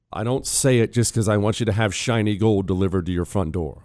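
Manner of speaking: live radio ad read. Acted. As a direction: sell it like a host read. Host reads a gold ad.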